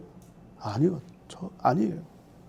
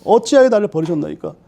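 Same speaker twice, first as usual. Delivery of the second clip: crying out. Acted. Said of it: "이렇게 부르짖는 거예요".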